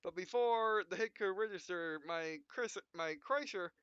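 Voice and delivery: hammed-up anime pilot, punchy and loud in the fights; dramatic hero narration. Gamer voicing his pilot through a close mech duel, hammed-up. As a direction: play the frantic mech pilot mid-duel.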